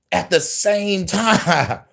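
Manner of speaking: slow words broken by a laugh; drawn out with a chuckle. Real, not acted. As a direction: laugh through the last word. Laughs mid-word, slowed.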